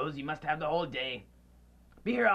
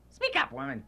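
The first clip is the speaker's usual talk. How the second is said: much higher, sharp demand; impatient order; 4 dB louder than usual. Acted. Scrooge ordering his housekeeper to speak up. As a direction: bark it at her.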